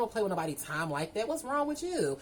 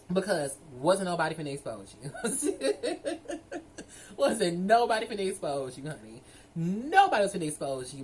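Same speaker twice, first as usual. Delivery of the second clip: chuckling through a dismissive repeat; laughing. Real, not acted. Laughing off the man's fear of exposure. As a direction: laugh it off while denying it.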